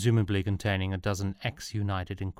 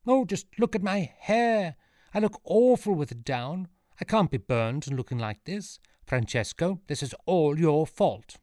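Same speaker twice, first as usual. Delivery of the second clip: high-pitched complaining wife; vain, fretful wife; 8 semitones higher, 4 dB louder than usual. A narrator's reading. Wife blaming husband as she frets over her hair, high and petulant. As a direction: wail about it in a high wifely voice.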